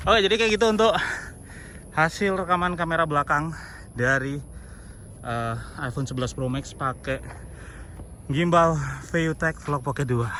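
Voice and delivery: badly out of breath after running; winded, gasping for air between phrases. Real, not acted. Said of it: "Ngos-ngosan parah".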